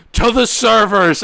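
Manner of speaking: high, yelled, rousing voice. Retelling raising a cup at the end of a party: retelling his own yelled toast. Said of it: "I raise my cup and I yell".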